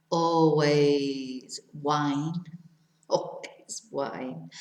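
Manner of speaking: slow, drawn-out joke, then a laugh; amused confession. Real, not acted. Jokes about wine in fridge.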